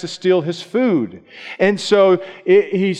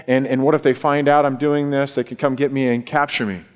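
fearful; 4 semitones lower than usual. Retold or imitated. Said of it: "And he's fearful".

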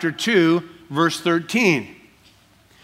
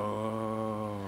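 hushed gasp of doubt; 7 semitones lower, 14 dB quieter than usual. Retold or imitated. Staring at the send button.

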